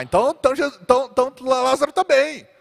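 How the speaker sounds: high, hammed-up relieved voice; naive disciples. (discípulos ingênuos, voz aguda caricata)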